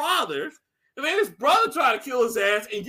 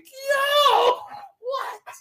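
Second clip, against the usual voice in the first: shocked outcry; 13 semitones higher, 3 dB louder than usual. Retold or imitated. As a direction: exclaim in stunned disbelief, re-enacting it. Retold shocked reaction to a speech.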